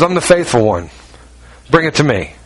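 low, gentle invitation; Jesus inviting. Acted. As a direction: offer rest to the hurting. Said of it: "Jesus says".

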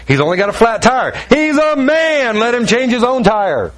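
exasperated retold argument, pitch climbing; indignant protest. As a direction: plead your case in mock outrage. Acted protest arguing with God.

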